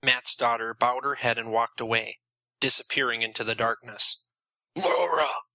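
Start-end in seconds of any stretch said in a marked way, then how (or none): 4.8-5.4 contained stage scream of a desperate father; narrated scream. A narrator's reading. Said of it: "Matt screamed".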